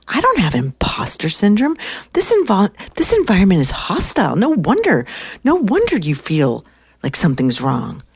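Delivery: high, emphatic oratory with swooping pitch; no-BS secretary. Retold or imitated. Secretary telling women environment is hostile, emphatic. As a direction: imitate her driving the point home. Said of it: "she's like, no B S".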